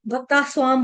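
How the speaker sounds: "भक्ता स्वाम" run together without the t; common mispronunciation. Shown as a demonstration. Teacher showing students the mistake, "भक्ता स्वाम" without t. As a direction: drop the t, bhakta-svaam. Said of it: "जल्दी जल्दी गलती से".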